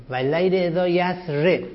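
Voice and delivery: slow Quranic recitation of the verse; slow measured recitation. Shown as a demonstration. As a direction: recite it slowly and carefully. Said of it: "یسری هستش ها".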